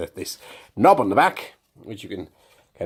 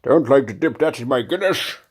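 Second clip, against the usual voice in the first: put-on American accent; 2 semitones higher, 3 dB louder than usual. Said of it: "I went all American there".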